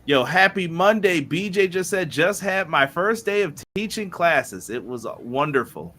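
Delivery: a light wrestler imitation, words stretched out; Matt Hardy. Co-host reading a viewer's first-day teaching message, lightly voiced wrestler impression. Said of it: "read that in my Matt Hardy voice".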